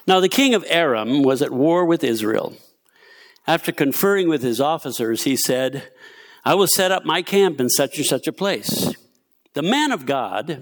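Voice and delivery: measured, lively Bible story narration; scripture reading. A narrator's reading. Preacher reads Second Kings to the church, measured scripture reading. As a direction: read the passage out to the room.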